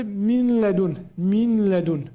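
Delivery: min ladun with the noon inserted; wrong take. Shown as a demonstration. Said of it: "This is wrong".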